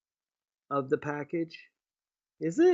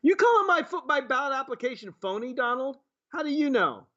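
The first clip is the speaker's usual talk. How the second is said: indignant retort; 5 semitones higher than usual. Pretend. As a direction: bristle at the insult. Pretend delegate retort to Trump.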